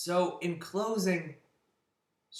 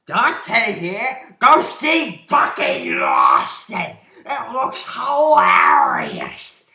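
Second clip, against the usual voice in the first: much louder, slow and stretched, near a shout; over-the-top promo voice; 5 semitones higher, 14 dB louder, slower than usual. Retold or imitated. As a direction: bellow the TV-spot plug like a hammy pitchman.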